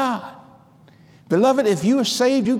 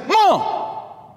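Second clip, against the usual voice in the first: retold call to mom; 10 semitones higher than usual. Injured son calls to his mother.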